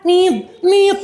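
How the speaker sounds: high mock yell of a nagging voice; a light shrill call of the anger inside; mock shrieking. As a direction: squeal it like someone shouting for attention. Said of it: "teriak-teriak".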